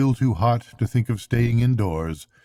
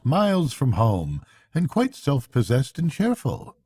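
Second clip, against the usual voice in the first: lightly raised easygoing Mole; Mole, breezy and reassuring; 3 semitones higher than usual. Acted. Mole reassuring Rat that Portly will turn up, breezy. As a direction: shrug it off cheerfully.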